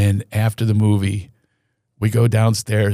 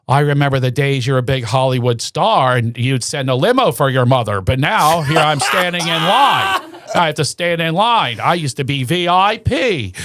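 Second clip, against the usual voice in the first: higher, put-upon mom voice; mother's complaint; 4 semitones higher than usual. Retold or imitated. Son imitating his mother's self-pity about waiting in line. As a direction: mimic his aging mother's whining. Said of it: "and she goes".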